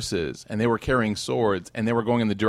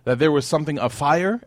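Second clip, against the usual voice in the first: calling out to crowd; 3 semitones higher than usual. Pretend. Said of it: "it's like if I said".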